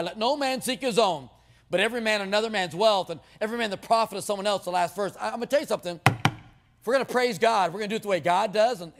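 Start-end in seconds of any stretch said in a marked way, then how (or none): 0.0-4.6 lightly mocked preacher reading; smug self-excusing preacher. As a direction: recite the verse like it's for others. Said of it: "and we say".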